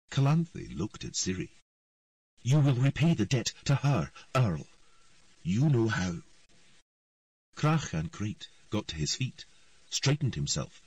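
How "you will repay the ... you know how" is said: stern commanding. A narrator's reading. Queen to earl.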